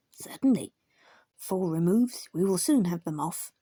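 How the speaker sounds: loud, brisk and ready; hearty blacksmith. Acted. Terrier smith cheerfully taking the job, loud. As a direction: boom it out like a keen smith.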